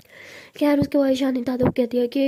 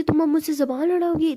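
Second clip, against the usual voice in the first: higher-pitched acted indignation; angrier retort; 5 semitones higher than usual. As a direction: challenge the back-talk crossly. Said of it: "दादू और ज़्यादा गुस्सा करती है". (गुस्से से पलटकर)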